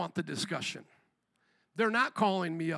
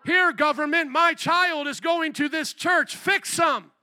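slow, raised voice; informing parent; 7 semitones higher, 5 dB louder, slower than usual. Retold or imitated. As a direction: hand the child over. Voicing parent informing on child.

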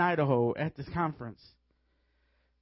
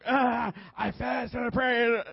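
mock preacher's drawn-out bellow, pitched up; David Hogan; 5 semitones higher, slower than usual. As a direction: imitate an intense minister, slow and strained. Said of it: "He sort of is in your face".

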